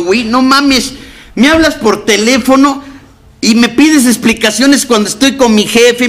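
más agudo, reclamo de la esposa harta; esposa harta imitada. Retold or imitated. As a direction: imita a la mujer quejándose con voz alta. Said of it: "Y una vez me dijo". (ella reclama, voz aguda e imitada)

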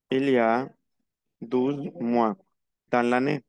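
measured, piece by piece for learners; slow model answer. Shown as a demonstration. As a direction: answer in separate chunks, pausing between them. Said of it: "On répond avec la même phrase". (respuesta modelo, por partes)

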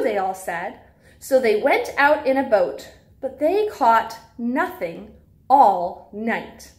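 lively storybook read-aloud for little ones; reading to children. Acted. Teacher reads a Bible story to preschoolers in storybook voice.

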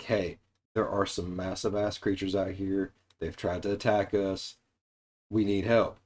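mild scared plea. Retold or imitated. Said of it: "they're like".

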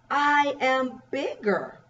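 lightly voiced bug, slow and deliberate; drawn-out storybook quote; bug character. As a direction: read it as a bug one-upping another. Reads the bug's line.

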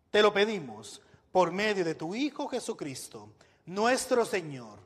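solemn spoken prayer to God; praying aloud. Real, not acted. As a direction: lead the church in prayer. Leads an opening prayer.

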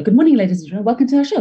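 "show" rising up high like a question; rising playful welcome; questioning tune. Shown as a demonstration. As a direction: lift the end of "welcome to our show". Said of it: "a different tone".

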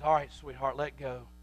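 lightly voiced mother soothing a child; gentle mother. Mother to two-year-old pulling hair, gently coaxing.

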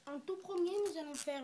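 words rounded by a sweet in the mouth; talking with a candy in mouth. Real, not acted. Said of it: "j'ai un bonbon dans la bouche".

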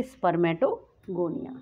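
each syllable of spermatogonia drawn out slowly; teacher dictating the term spermatogonia slowly; slow dictation. Shown as a demonstration. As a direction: spell out spermatogonia slowly so students can write it. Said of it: "सबसे पहले क्या बनेंगे?".

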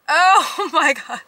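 laughing through embarrassed words. Real, not acted. Embarrassed by her nails.

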